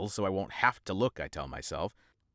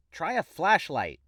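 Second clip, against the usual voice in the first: disgusted; 7 semitones higher, slower than usual. Acted. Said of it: "with disgust".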